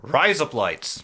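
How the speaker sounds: "Rise up lights" sounding like Australian "razor blades"; Australian accent. Shown as a demonstration. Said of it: "saying razor blades in an Australian accent".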